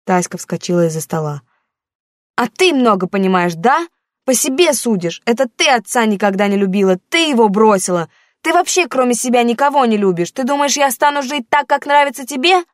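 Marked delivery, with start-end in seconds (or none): 2.4-12.6 put-on higher, louder defiant teenage girl; a hurt daughter pushing back at her mother; teen daughter, defensive. Daughter defending her boyfriend to her mother, defiant and higher.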